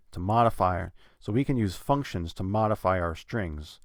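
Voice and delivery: "modify" stressed on its first syllable. Shown as a demonstration. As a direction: lean on "modify" as the key action. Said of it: "I am putting stress on modify".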